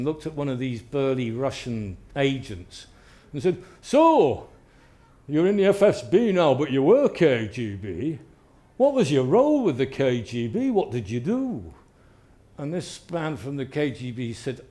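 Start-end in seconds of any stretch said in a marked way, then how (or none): 3.8-11.7 mock polite. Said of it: "in very polite conversation".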